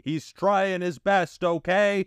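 high, slow pleading whine; whiny defensive plea. Pretend. Mock defending Dante.

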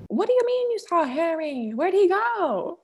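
high, drawn-out incredulous questions; imitated excited mom. Daughter voicing Mom hearing of Harry, high excitement. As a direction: act out a mom squealing at the news. Mom's reaction acted out.

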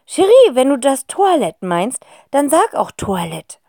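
loud, then whispered fox voice; whispering fox scarf. Acted. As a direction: correct her like a snooty scarf. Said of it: "flüstert es plötzlich aus dem Fellschal". (Fuchsschal, flüsternd)

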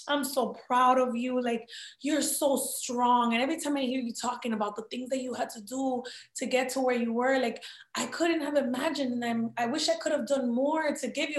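soft, tender retelling of a tearful mother; retold emotional mother. Mother telling her daughter she is proud, softly emotional. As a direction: gently voice a proud mother on the verge of waterworks. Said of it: "all of a sudden it's like waterworks".

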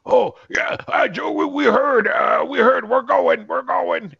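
high, loud panicked orc babble. Acted. Orc who understood common, stammering in a high panic. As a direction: yelp it out like a scared orc scrambling away.

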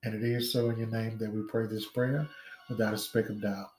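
steady fervent prayer cadence. Real, not acted. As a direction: pray aloud over the congregation. Leads an opening prayer.

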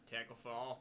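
put-on Kennedy-style Boston accent. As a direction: say Tackle Fall like a Kennedy. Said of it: "I kinda went Kennedy on that one".

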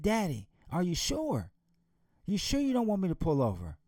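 frantic daughter. Acted. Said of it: "She was frantic. She was scared".

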